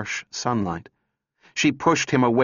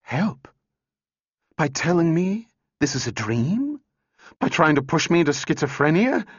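hysterical; 7 semitones higher than usual. A narrator's reading. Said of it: "A hysterical tenseness seized her".

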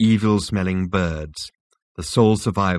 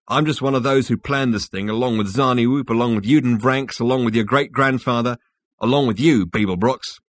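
raised, insistent character voice; Rooster emphatic; 4 semitones higher, 4 dB louder than usual. Acted. Rooster lists the plotters to Zaphod, raised and emphatic. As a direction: build the list up to a forceful "you".

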